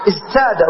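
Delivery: "ازداد" pronounced iz-tāda, with a t; underlying form. Shown as a demonstration. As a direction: keep a t after z in "ازداد". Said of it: "في الأصل".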